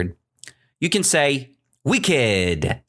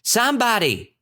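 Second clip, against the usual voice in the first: high-pitched repeated cry for help; mock shout, raised in pitch rather than volume; acted shouting; 10 semitones higher than usual. Shepherd boy running to the village, mock shouting. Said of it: "and he was shouting".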